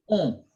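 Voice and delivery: nasal vowel on; "On." with the vowel through the nose. Shown as a demonstration. Teacher modelling the nasal sound, nasal on. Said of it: "produce the same sound as, as on".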